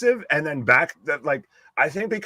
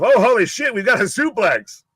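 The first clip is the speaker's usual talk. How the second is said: retold excitement; 6 semitones higher, 4 dB louder than usual. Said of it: "you had to point it out to me".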